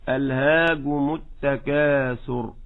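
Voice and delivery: ألهاكم said alhagmu with the k turned into a g; wrong voiced kaf. Shown as a demonstration. Teacher shows listeners the wrong kaf. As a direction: demonstrate the kaf choked into a g in ألهاكم. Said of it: "ولا تقل".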